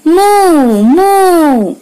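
high, loud mooing like a cow. Retold or imitated. Teacher shows children how a cow sounds, loud high moo. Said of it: "And cow says".

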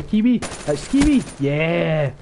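high, loud victory cry; triumphant shout. Real, not acted. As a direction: shout his name in triumph. Triumph, finally killed Kiwi.

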